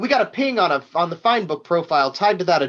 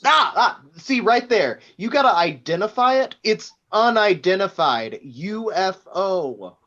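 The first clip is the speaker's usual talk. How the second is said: gloating gotcha; 2 semitones higher, 3 dB louder than usual. Acted. Boss gloating, catching him out.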